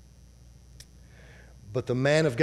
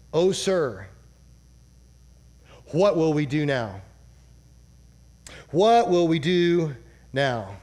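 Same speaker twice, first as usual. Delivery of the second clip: panicked servant; 3 dB louder than usual. Retold or imitated. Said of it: "He says".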